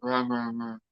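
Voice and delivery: breathy whispered repeat of wrong. Real, not acted. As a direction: let wrong fade into a whisper.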